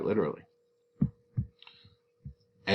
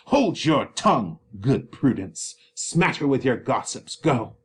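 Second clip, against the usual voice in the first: curt dismissal; 3 semitones higher than usual. Acted. Capulet silences Nurse.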